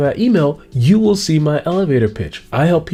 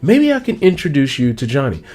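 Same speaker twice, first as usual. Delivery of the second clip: interested listener; 3 semitones higher, faster than usual. Acted.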